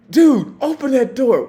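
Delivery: loud, high laughing shout; yelling order. Retold or imitated. Officer to drunk on the couch, loud laughing yell. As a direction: bellow it while cracking up.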